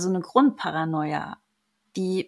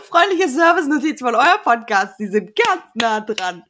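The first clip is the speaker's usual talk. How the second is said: announcer voice; 4 semitones higher, 5 dB louder than usual. Pretend. Gespielte Ansage an Täter.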